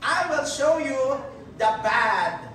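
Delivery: slow, smug self-justifying; mock excuse. Preacher mocking someone blaming others, slow and smug. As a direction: drawl out the lame excuse. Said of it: "Hindi mo pwede sabihin eh".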